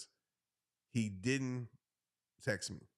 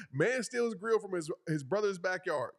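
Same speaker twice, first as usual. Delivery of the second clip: mock headline; 4 semitones higher than usual. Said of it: "Can't you imagine that title?".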